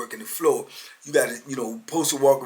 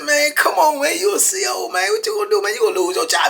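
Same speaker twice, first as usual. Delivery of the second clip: high, loud appeal; excited imitation of pleading; retold urgent reasoning; 11 semitones higher, 4 dB louder than usual. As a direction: talk a raging friend down urgently. Acted inmate pleading with officer.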